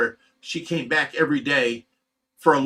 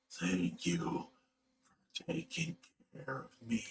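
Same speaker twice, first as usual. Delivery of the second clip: whispered, much lower and much softer, drained; faint lethargic voice; 4 semitones lower, 18 dB quieter, slower than usual. Retold or imitated. Imitating his dying wife thanking him, faint and whispered. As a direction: barely breathe the words out like someone fading away. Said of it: "this is how she said it".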